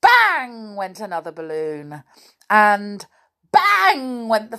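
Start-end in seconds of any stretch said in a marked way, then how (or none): 0.0-0.8 high, loud burst; sudden storybook bang; exclaimed bang. A narrator's reading. Narrator voices balloon bursting. 3.5-4.3 very high, loud final burst; explosive storybook bang; exclaimed bang. A narrator's reading. Narrator voices last balloon bursting.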